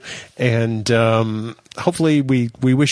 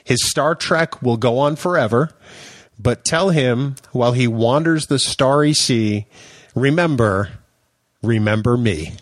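very slow, drawn-out lyric reading; dramatic poem recitation. Acted. Podcast host reciting show lyrics to his co-host, slow and dramatic. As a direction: recite it slowly, lingering on each phrase.

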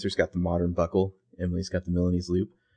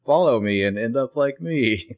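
higher-pitched mock doll line; creepy doll voice; 4 semitones higher than usual. Suggesting another doll message, playful creepy voice. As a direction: lightly imitate a talking doll. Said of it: "wanted it to be like".

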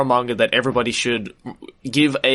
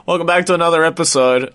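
spooky voice; 2 semitones higher than usual. Pretend. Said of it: "the reason why we're talking like this".

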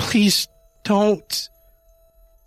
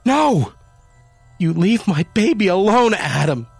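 high, loud frantic cry; 11 semitones higher, 5 dB louder than usual. A narrator's reading. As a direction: yell at him to leave the cat. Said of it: "Jamie cried".

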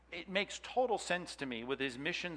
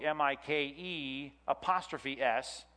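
spelling out letters; slower than usual. Shown as a demonstration. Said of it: "Mike's book".

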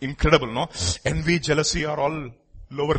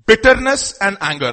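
group reading; 6 semitones higher, 6 dB louder than usual. Shown as a demonstration. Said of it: "let's read that together".

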